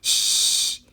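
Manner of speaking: unvoiced hush; hissing shush. A narrator's reading. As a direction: hush the others before Mama comes. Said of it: "hissed Pip".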